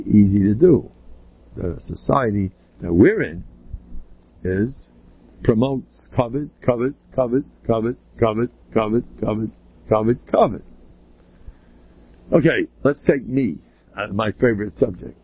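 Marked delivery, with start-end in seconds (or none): 5.4-10.6 "covet" repeated evenly like a broken record; "covet" in an even, pulsing repetition; repetitive drone. Acted. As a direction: say "covet" over and over in the same measured beat. Mimics society's endless repeated message.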